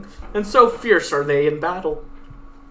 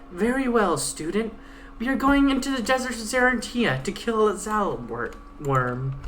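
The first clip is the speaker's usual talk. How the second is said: lightly voiced stern guide, pitched a bit higher; 6 semitones higher than usual. Guide threatening the Pegasus at knifepoint, lightly voiced stern menace. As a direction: threaten coldly as the blade-holding guide.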